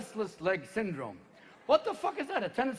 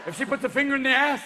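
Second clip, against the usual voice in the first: sperm voice; 5 semitones higher, 3 dB louder than usual. Acted. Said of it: "two other sperms in my balls going".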